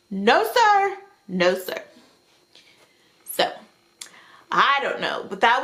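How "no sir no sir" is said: indignant refusal. Real, not acted. Rejecting the creeper.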